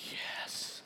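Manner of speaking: breathless whispered yes; silent whispered yes. Retold or imitated. Watching his sister head for his brother's bed, whispered triumph. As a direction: celebrate without making a sound.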